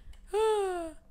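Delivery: high-pitched sigh. Real, not acted. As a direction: let out a sigh after a blunder. Sigh after the mistake.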